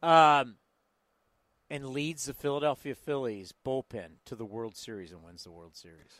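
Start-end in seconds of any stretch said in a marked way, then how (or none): 1.7-6.1 low, fading epic trailer read; movie trailer voice. Acted. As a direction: drop into a hushed trailer voice. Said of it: "It's my movie trailer voice".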